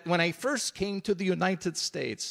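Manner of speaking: lightly attempted, bad Russian accent; terrible Russian accent. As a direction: do a half-hearted Russian comedian's accent. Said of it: "that's a terrible Russian accent".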